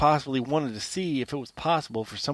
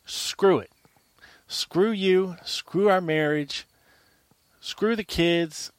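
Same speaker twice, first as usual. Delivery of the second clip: raised, higher voice venting at his wife; imitated outburst; 3 semitones higher than usual. Husband venting at Marina, raised and fed up. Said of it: "He could have just said".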